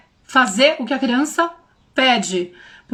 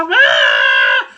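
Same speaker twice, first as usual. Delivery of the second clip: a loud mock scream from the child; child's sudden shout; 5 dB louder than usual. Mother imitating her daughter's loud yell. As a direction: burst out in a short yell. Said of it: "De repente ela".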